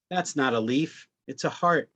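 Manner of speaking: lightly voiced correction from a son; child's objection. Son objects to father's word for the leaf, mild correction. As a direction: correct him, lifting "it's a heart". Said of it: "objects to my unimaginative terminology".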